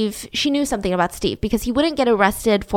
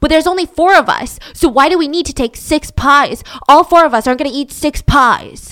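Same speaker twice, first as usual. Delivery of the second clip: shrill, high, loud, furious red-faced screaming; 5 semitones higher, 7 dB louder than usual. Retelling a relative's outburst over how many pies to bring: imitating someone screaming. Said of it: "starts screaming".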